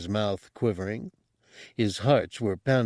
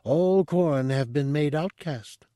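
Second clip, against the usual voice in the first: higher, calm all-knowing monk; mystic monk voice; 4 semitones higher than usual. Acted. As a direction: speak as a serene mystic. Monk's speech read aloud.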